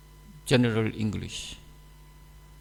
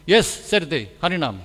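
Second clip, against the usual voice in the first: louder, noun-only answer; clipped reply; 3 semitones higher, 6 dB louder than usual. Retold or imitated. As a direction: answer in bare nouns, firm. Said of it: "Don't know how I say".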